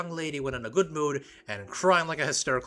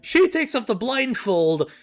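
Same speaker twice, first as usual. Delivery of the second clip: excited; 5 semitones higher, 6 dB louder than usual. Real, not acted. Excited hype about beauty.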